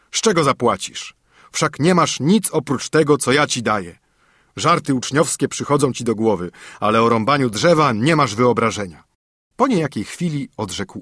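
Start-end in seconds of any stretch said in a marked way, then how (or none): 0.1-9.0 a hint of a worried, cross old father; father scolding his son over the axe. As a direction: fret and scold, quicker near the end.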